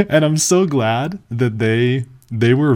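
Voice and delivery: high-pitched, slowed words through real laughter; laughing. Real, not acted. Storyteller relieved about the police encounter, laughing.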